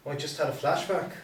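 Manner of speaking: lightly voiced Irish accent; a hint of Irish lilt. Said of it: "Still Irish".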